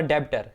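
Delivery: "debtor" with the b sounded; wrong pronunciation. Shown as a demonstration. Teacher warns commerce students off it, wrongly sounded b. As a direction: say "debtor" as deb-tor, b pronounced. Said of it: "डेबिटर नहीं है".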